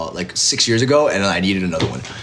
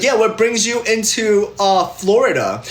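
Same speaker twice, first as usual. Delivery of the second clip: hotel clerk voice; 7 semitones higher than usual. Retold or imitated.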